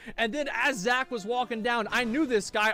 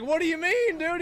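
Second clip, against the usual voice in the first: high, puzzled "what do you mean"; mock surprise; 8 semitones higher than usual. Asking his friend Zach what he means, puzzled and high. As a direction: act baffled at your buddy.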